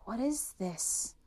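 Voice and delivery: baffled to himself; puzzled thought. Acted. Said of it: "thought the emperor".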